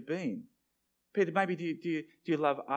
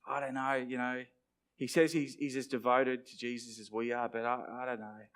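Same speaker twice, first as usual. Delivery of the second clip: doubting disciples; 2 semitones lower, 3 dB quieter than usual. Acted. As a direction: voice a follower's private misgivings about a friend. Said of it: "wonder if the other disciples have had questions".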